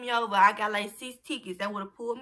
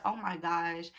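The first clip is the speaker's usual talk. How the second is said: low, understated murmur of surprise; calm; 4 semitones lower, 7 dB quieter than usual. Retold or imitated. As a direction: calmly mumble it, barely reacting. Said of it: "I was calm, surprisingly".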